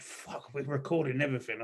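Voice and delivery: hushed whisper of sudden panic. Retold or imitated. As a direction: whisper it like you just realised the mic is on. Panicked inner thought on a recording.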